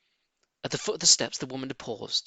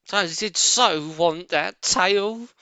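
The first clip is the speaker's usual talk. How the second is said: a hint of the big servant woman, called up the stairs; lightly voiced cellar maid; 7 semitones higher, 5 dB louder, slower than usual. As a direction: maid answering her mistress. Mabel voiced.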